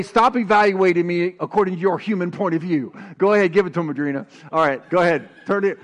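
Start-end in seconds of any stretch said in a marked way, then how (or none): 0.0-2.9 call-and-response line. Shown as a demonstration. Preacher leading the congregation, loud and firm. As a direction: Stop evaluating me said loud and firm.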